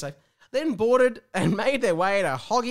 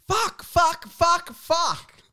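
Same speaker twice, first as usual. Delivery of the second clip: panicked swearing; 11 semitones higher, 7 dB louder, much slower than usual. Acted. Tom freaking out.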